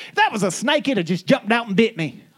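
grandpa's saying. Retold or imitated. Grandfather tells his snake joke, chuckling. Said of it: "he said".

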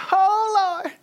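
high, far-off whimpering "Oh, Lord"; mock wailing cry. Mocking the whiny crier, high wail. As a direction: pretend to wail like a crybaby. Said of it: "What does the average American think".

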